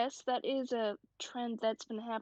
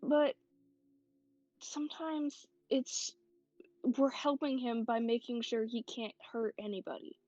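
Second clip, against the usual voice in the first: reassuring friend. Acted. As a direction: talk her down gently. Comforting a scared friend in-character.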